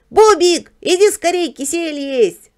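high, loud character shout; calling out. A narrator's reading. House dog calls friend to eat jelly, shouting. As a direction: holler for a friend to come. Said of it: "закричал Барбос".

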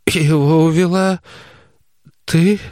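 a frightened mother's question; mother suspecting her daughter, high and fearful; mother, accusing. A narrator's reading.

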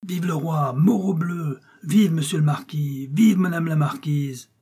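put-on high, sustained childlike rallying cries; military cheers. A narrator's reading. Boy on his military march, high cheering cries. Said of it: "sa promenade militaire de cris".

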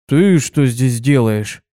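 surprised. Acted. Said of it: "удивился он".

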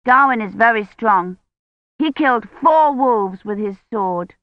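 lightly voiced little girl; little girl Agnes, boasting. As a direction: boast proudly like a young child.

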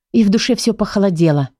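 plain reading voice

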